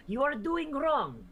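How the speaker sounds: slow, high-pitched scolding; disapproving character. Acted. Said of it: "her immediate thought is".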